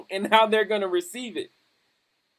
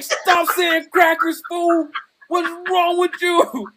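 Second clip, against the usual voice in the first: laughing hush; 10 semitones higher, 5 dB louder, slower than usual. Retold or imitated. Friends hushing him, laughing.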